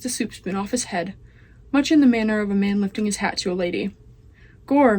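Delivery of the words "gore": loud exclamation. Acted. Meg exclaims.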